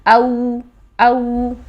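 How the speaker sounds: او called out loudly with rounded lips; او for the lin vowel, loud and rounded; loud drill demo. Shown as a demonstration. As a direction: sound out او firmly for students. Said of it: "وہ ہے واو لین".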